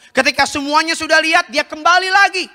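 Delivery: high, emphatic preacher's voice; preaching. Acted. Preaches at raised pitch. (khotbah berapi-api dengan nada tinggi)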